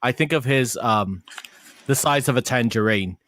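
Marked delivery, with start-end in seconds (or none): 1.9-3.2 put-on light British Cockney accent; a hint of a quoted British film-star accent; Michael Caine. Recalling a favourite film line, in a light British accent. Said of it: "a Michael Caine accent".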